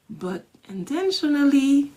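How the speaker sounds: intentionally lifted high and stretched; stress on intentionally. Shown as a demonstration. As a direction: lean hard into intentionally. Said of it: "put an accent on intentionally".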